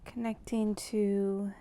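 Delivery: slow, measured meditative intro with long pauses; guided meditation. Real, not acted. Welcoming listeners to tune into primordial flows, slow meditative delivery. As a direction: draw each phrase out slowly, leaving space between. Opens a guided tuning-in practice.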